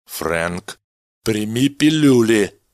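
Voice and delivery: final order, no arguing; decisive. Acted. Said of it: "решительно произнёс Меллин".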